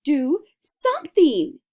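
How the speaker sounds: slow, loud pleading scream. A narrator's reading. Wife demanding her husband act, loud screaming. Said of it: "Missus Gloop screamed at Mister Gloop".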